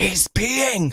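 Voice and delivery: high, pushed, shouted scream whisper. Retelling alerting everybody without yelling it out, in a little scream whisper. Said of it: "in my little scream whisper".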